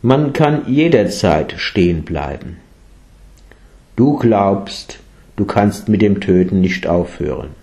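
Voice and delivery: a hint of a calm teacher. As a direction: speak gently and calmly. (ruhig, sanft belehrend)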